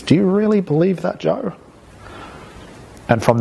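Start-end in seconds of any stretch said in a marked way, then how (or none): 0.0-1.5 "Do you really believe that, Joe?" ending on a big questioning rise. Shown as a demonstration. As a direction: lift "Joe?" high like a question mark. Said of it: "like a question mark on the end of things".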